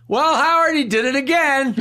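mock radio cohost. Cohost announcing his gaffe to Howard, amused tattling tone. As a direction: deliver it like a gleeful on-air tattle. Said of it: "the mics go on".

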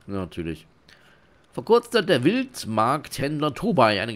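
animated smuggler boss with emphatic swoops; scheming innkeeper. Acted. Innkeeper giving the newcomer a smuggling job, animated and bossy. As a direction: lay down the rules theatrically.

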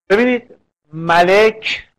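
ملک said slowly, each short vowel clear; ملک sounded out for the class; vowel demo. Shown as a demonstration.

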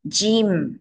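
"Jim" drawn out with rounded, pouted lips. Shown as a demonstration. Teacher shows children how to say "Jim", lips pouted. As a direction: pout the lips to pronounce "Jim" carefully. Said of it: "Các con chu miệng lên đọc phát âm cho chuẩn".

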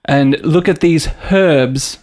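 slow put-on British, herbs with a sounded H; slow English accent, H pronounced in herbs. Friend showing how they say herb, slow British accent. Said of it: "They say herb".

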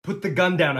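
high, urgent command. Acted. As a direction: order the gunman firmly. First order to gunman.

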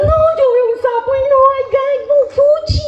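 high-pitched, hammed-up squeal of revulsion; squeamish disgust. Person recalling the toad scare, squeamish high squeal. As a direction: whine with exaggerated ick. Acts someone squeamish about toads.

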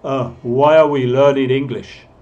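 "are" said as a weak uh; natural linking with shrunken "are"; reduced "are". Shown as a demonstration. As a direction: show the schwa, then link "why are" as "why-uh". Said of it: "Es como un "uh".

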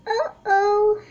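high sing-song uh-oh; a knowing little uh-oh. Acted. Child sensing trouble again.

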